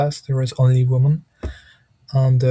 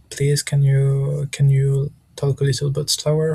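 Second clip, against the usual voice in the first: calm polite request. Shown as a demonstration. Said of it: "to be really trying to be calm".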